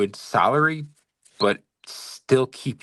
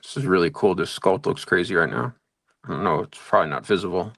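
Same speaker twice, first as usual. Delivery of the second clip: talking around a paintbrush in the mouth; brush in mouth; 3 semitones lower than usual. Real, not acted. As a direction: speak with a brush clenched between teeth. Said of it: "Also, I have a brush in my mouth".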